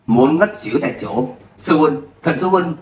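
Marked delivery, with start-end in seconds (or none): 1.6-2.8 crying out. Acted. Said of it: "Mọi người xung quanh đều kêu lên".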